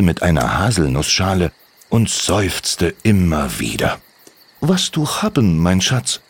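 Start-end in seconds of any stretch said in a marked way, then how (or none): 4.6-6.2 lightly voiced mother in broken German, a bit higher; a hint of a caring Russian mother; mother Olgari. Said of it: "wollte Olgari wissen".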